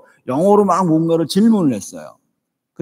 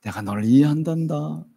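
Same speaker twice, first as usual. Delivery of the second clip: soft reassurance; 4 dB quieter than usual. Shown as a demonstration. Demo of life-giving words.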